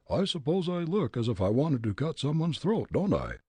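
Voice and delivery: put-on loud, high, blustering old gent; gruff angry old man. Old gent challenging Fritz, gruff and angry.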